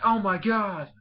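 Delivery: high, loud mock shock. Fletchling hit by bubble attack from above, shocked. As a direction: imitate a victim's startled cry.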